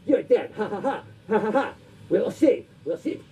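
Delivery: lightly voiced dubbed kung fu villain with mock laughs; kung fu theater villain. Coworkers goofing off at work, lightly voiced kung fu villain. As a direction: play a hammy martial arts film villain, but only a little. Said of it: "doing, like, the Kung Fu theater".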